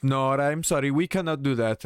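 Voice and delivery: a hint of a phone rep saying no; customer service agent. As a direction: mimic the scripted apology.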